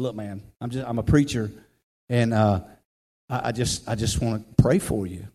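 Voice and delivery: low, soft and hesitant; gentle approach. Retold or imitated. Preacher gently approaching a wary man.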